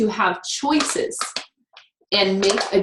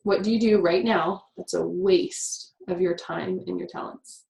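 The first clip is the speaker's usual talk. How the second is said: imitating him; 3 dB quieter than usual. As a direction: mimic how he asked it, dropping to a breath. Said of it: "And that's how he said it".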